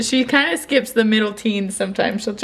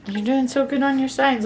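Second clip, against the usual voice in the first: higher praise; 5 semitones higher than usual. Real, not acted. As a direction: lift the voice to cheer her on. Praising toddler's signing.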